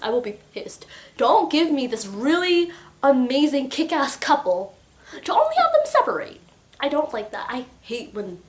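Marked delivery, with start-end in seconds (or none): 0.0-0.9 whisper. Real, not acted. Repeating the threat. 1.2-6.4 rising to a high, loud, fast outburst; indignant rant. Real, not acted. Reader ranting at the author, indignant and loud. Ranting against a sad ending.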